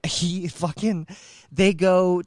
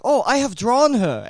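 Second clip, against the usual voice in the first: eager quote; 7 semitones higher, 5 dB louder than usual. Retold or imitated. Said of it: "He's like".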